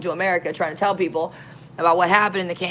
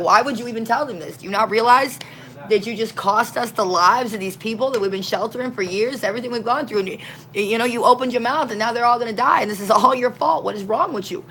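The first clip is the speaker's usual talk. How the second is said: raised, higher-pitched scolding of the sister; upset outburst; 4 semitones higher than usual. Retold or imitated. Furious sister berates the other for telling the Nazis. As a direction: blame her sister in a hot rush. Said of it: "loses her mind".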